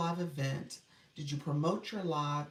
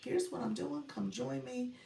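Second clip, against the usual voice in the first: peppy promo voice; 7 semitones higher, slower than usual. Shown as a demonstration. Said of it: "You guys are supposed to be like".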